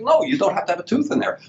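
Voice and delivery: high-pitched, insistent retold reply; emphatic reassurance. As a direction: push the voice up high on No, you don't have to. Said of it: "I'm like".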